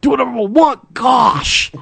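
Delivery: high, whiny shout; bratty teen whine. Acted. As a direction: whine it like a sulky teenager. Napoleon Dynamite style whine.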